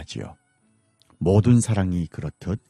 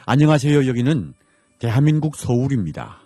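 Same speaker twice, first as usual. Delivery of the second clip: bright announcer greeting; 4 semitones higher than usual. Acted. Radio program signature greeting.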